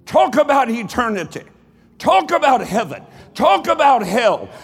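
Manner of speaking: building preaching. Real, not acted.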